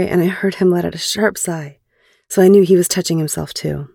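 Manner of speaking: measured, clearly phrased audiobook read; story narration. A narrator's reading. Narrator recounting a private phone call to listeners, story narration. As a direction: read it as an intimate first-person story. Reads erotic fiction aloud.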